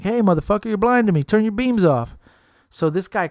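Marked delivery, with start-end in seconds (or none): 0.0-2.2 mock road rage. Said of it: "flashes his lights like".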